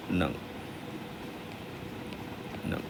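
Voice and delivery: नंग said with an ng nasal. Shown as a demonstration. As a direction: end नंग on a back nasal ng. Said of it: "इसका pronunciation क्या होगा". (नंग का उच्चारण)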